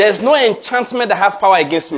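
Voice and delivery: loud, emphatic, stress on no; a rousing pulpit declaration. Shown as a demonstration. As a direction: lead the church in declaring. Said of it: "Let's declare again".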